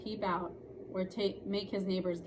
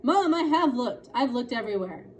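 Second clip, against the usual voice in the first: whiny daughter; 4 semitones higher, 9 dB louder than usual. Acted. Daughter complaining to mother.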